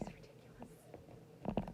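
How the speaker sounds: slow adoring whisper. Real, not acted. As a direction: whisper fondly about the dog.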